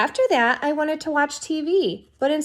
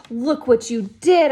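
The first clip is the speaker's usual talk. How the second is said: slow, louder scolding of a little sister; angry scolding; 5 dB louder than usual. Acted. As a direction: drag out the blame, a bit louder.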